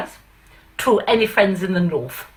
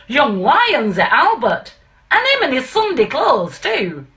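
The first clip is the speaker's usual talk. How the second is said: aggrieved Pa; 5 semitones higher than usual. Acted. Pa complains to manager.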